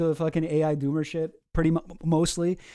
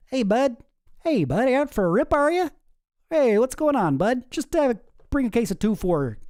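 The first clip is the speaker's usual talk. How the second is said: much higher, hammed-up rural Canadian buddy; rural Canadian accent; 5 semitones higher than usual. Streamer riffing on Claude as a Canadian hockey buddy, hammed-up. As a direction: ham up the Canadian hockey-rink pal. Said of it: "suddenly become rural Canadian?".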